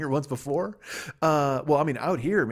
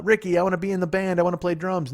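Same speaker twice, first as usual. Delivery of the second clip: lightly voiced pleading wife, raised pitch; hammed-up Lucy; 5 semitones higher, 5 dB louder than usual. Sitcom wife begging Ricky to join the band, hammed-up pleading. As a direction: plead higher and louder in a mock sitcom voice.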